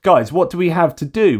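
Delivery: a hint of an indignant holidaymaker; mock Russian tourist. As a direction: play the aggrieved tourist, only a little. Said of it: "if you're gonna say".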